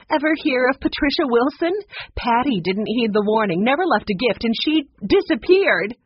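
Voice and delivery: high, loud, spooky warning voice; ominous warning. A narrator's reading. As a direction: make the room shiver. Woman warns room about Patricia.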